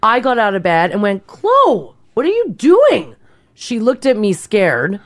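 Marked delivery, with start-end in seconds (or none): 1.3-3.1 high surprised call to the cat. Retold or imitated. Calling out to cat at night.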